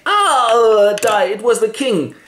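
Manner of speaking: loud, high groan into confession; hammed-up last words; dying duelist. Laertes dying in the duel.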